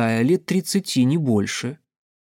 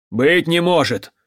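raised, incredulous cry; disbelieving exclamation; 4 semitones higher, 4 dB louder than usual. A narrator's reading. Man in the crowd reacts to Pyotr, disbelieving exclamation. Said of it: "воскликнул мужик рядом с ней".

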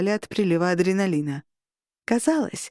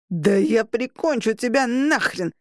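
roaring threat; 2 semitones higher than usual. Acted. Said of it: "заревел Пичи".

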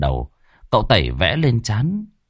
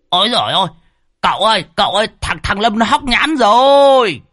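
high, loud panicked cry for help; alarmed cry; 11 semitones higher, 5 dB louder than usual. A narrator's reading. Medium crying out to master that Lâm choked, panicked loud cry. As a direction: cry out in alarm, much higher and louder. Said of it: "Ông Đồng kêu lên".

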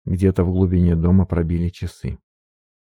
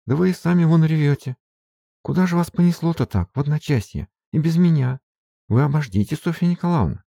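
higher, breathless servant woman fussing over mistress; flustered maid; 8 semitones higher than usual. Acted. Maid Marfa chasing her mistress, anxious and higher. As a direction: gasp it out like a worried peasant maid.

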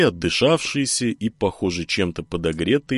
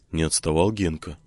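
ordinary delivery, nothing marked

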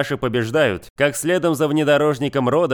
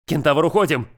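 shouted; 2 semitones higher than usual. Acted. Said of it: "крикнул один из мужчин".

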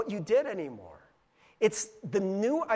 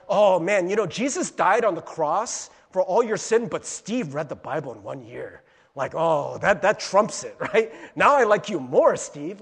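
loud, sarcastic mock praise; 2 semitones lower, 6 dB louder than usual. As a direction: lampoon your own bragging. Mocking God's imagined reaction.

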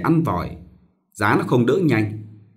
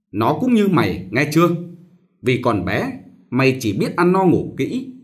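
a hint of a fussy master giving orders; old master instructing; 3 semitones higher than usual. Master instructs the servant girl.

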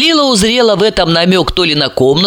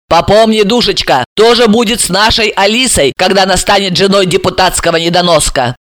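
spitting venom; 2 semitones higher than usual. Acted. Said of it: "она изрыгнула".

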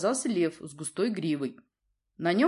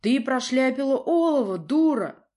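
louder, higher furious roar; roaring father; 7 semitones higher, 8 dB louder than usual. A narrator's reading. Prince roars at his daughter, furious. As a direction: blast her with anger. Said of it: "взревел он".

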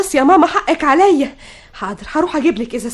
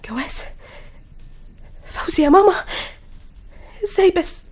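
starting hushed, then higher in shock; stunned disbelief; 5 semitones higher, 3 dB quieter than usual. Acted. Daughter hearing that mother will marry, stunned. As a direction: struggle to take it in, word by word.

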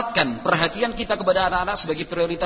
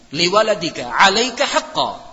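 hadith recitation; 2 semitones higher, 7 dB louder, slower than usual. Real, not acted. Preacher recites a saying in Arabic.

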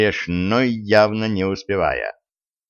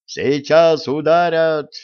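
alarmed shout; 7 semitones higher, 4 dB louder, slower than usual. Acted. Warning of imminent attack.

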